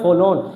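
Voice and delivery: "फॉलोन" as fo-lon, r left out; silent r. Shown as a demonstration. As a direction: say "फॉलोन" without any r before the l. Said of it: "क्या पढ़ते हैं?".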